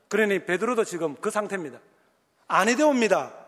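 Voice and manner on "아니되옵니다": loud formal 아니되옵니다; formal proper speech. Shown as a demonstration. Preacher showing proper denial: loud formal 아니되옵니다. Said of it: "이렇게 해야 되는데".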